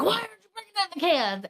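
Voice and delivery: nagging neighbor. Retold or imitated. Neighbor getting on him about the cans, nagging.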